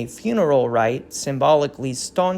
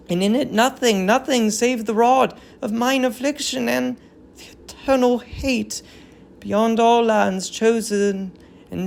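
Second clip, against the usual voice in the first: solemn tragic verse, lightly voiced; a hint of an old queen grieving; grieving queen's lament; 5 semitones higher than usual. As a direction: mourn the fallen city in measured verse. Hecuba's vision speech.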